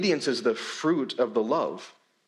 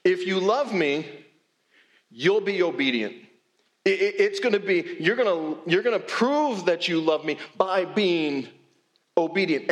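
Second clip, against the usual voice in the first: demanding reading. Retold or imitated. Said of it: "we read it like".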